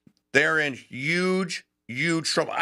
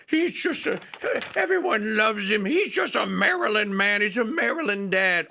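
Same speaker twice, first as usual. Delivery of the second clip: sarcastic mock voice; 7 semitones higher than usual. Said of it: "poster child for".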